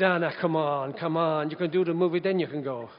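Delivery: light Irish lilt; Irish accent. Retold or imitated. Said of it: "he was an Irishman".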